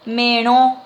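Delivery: "Mero" loud, with a nasal stressed O; nasal accent. Shown as a demonstration. Teacher models the word for melon, nasal accent. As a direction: push the last O of "Mero" through the nose. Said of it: "con acento nasal".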